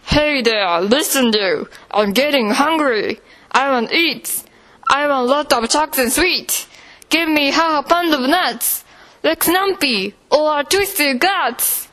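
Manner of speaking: lightly voiced tummy beast, demanding; a greedy beast in the belly demands sweets. A tummy beast demands food from the boy's mother, lightly voiced. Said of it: "It shouted".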